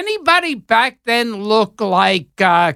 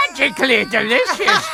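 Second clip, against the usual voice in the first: put-on Irish accent; 2 semitones higher, faster than usual. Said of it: "DiCaprio does an accent".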